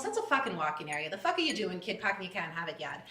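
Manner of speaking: thick Boston accent, played for laughs; mock Boston accent. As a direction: put on a Boston local scolding. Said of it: "like, Boston accent".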